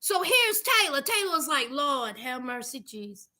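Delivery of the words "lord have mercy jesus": low, soft mock despair; exasperated under breath. Wife embarrassed by her husband, low soft exasperation. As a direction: sink into a lower, softer groan of exasperation.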